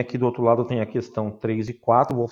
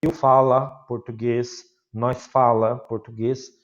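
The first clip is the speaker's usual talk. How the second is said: foreigner's broken Portuguese; 3 dB louder, slower than usual. Retold or imitated. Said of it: "eles saem falando".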